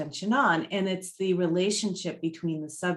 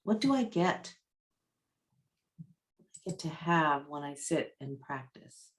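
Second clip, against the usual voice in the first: guided meditation. Real, not acted.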